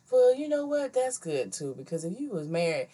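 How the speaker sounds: a hint of great-grandma reasoning. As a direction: trail down into a matter-of-fact elder's verdict. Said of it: "my great-great-grandma".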